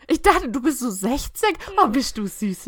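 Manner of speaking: lightly voiced sweet old lady. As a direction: coo it like a fond grandma. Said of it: "die so".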